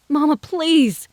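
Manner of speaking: high, loud, slow begging; pleading cry; desperate plea. A narrator's reading. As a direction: beg her to stop. Dinah begs her mother.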